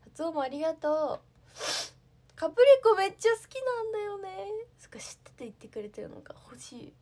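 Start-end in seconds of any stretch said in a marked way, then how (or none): 2.3-4.5 high, loud gushing enthusiasm; real excitement. Real, not acted. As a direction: burst out with delight, pitched well up. Gushing over a favourite snack.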